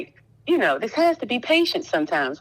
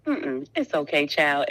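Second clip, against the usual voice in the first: soothing; 5 semitones lower, 3 dB quieter than usual. Retold or imitated. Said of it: "And it was so soothing".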